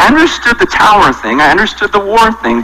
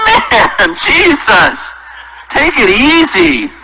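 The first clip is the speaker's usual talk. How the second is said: laughing protest; 4 semitones higher, much slower than usual. Retold or imitated. Pastor reacting to Jesus' words.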